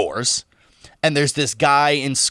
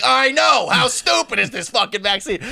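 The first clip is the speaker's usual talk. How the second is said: mocking scoff; 9 semitones higher than usual. Retelling a covid denier's scoffing.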